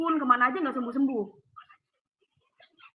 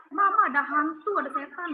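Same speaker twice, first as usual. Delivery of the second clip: lightly raised cry to mum; mild retold yell; 3 semitones higher, 4 dB louder than usual. Daughter telling mum there is a ghost, mild retold yell. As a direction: retell calling out in alarm, only half shouted. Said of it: "aku teriak".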